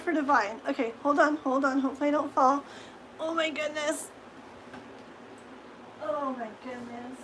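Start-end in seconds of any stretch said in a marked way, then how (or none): 3.2-4.1 groaning as she gets up stiffly; aching groan while standing; sore muscles. Real, not acted. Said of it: "Oh my gosh, I'm so sore". 6.0-7.2 sore, sinking into the effort; sore muscles. Real, not acted. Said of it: "Oh my gosh, I'm so sore".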